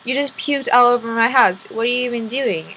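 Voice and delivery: loud, acted exclamation of disbelief; lightly acted outrage; mildly indignant. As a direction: confront the culprit, half in earnest. Fairy confronts unicorn over puke.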